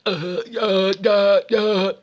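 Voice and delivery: put-on defiant kid's uh-uh, head shaking; stubborn grunted no, no, no; refusing. The boy Billy refuses to leave, grunting stubborn uh-uhs. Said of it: "shaking his head like".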